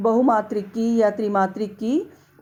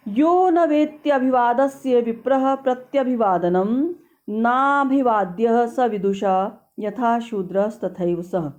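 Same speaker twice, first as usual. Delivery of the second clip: shloka recitation. Acted. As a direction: recite it like scripture, measured.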